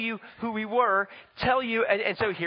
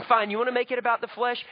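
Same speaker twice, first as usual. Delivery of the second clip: frustrated; 5 semitones higher, faster than usual. Retold or imitated. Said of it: "getting kind of frustrated and angry".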